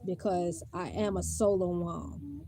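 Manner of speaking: talking with a dislocated jaw. Real, not acted. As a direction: speak through a painful, stiff jaw. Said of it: "I think my jaw is dislocated".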